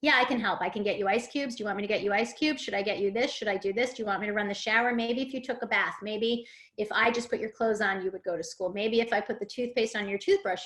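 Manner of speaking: rapid-fire offers of help, lightly acted; over-helpful parent. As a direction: imitate a parent rushing through suggestions, a touch eager. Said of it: "That was my old mantra".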